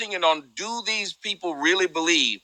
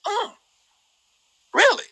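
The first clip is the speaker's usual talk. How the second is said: sarcastic. Retold or imitated. Sarcastic retort to viral post.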